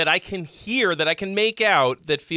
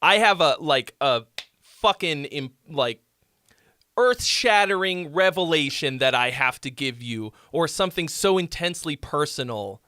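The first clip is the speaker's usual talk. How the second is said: mock songwriter. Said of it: "if you're like".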